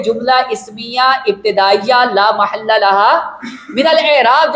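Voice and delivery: slow, measured full label; slow dictation. Shown as a demonstration. Teacher modelling how students should say it, slow. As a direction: say the whole analysis deliberately. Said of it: "جب اس طرح بولیں گے".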